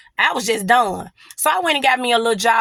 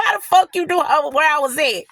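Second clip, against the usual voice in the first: higher-pitched mock bewilderment; amused take on someone caught out; imitating his startled look; 4 semitones higher than usual. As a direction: act out his stunned reaction. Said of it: "That's how you look like".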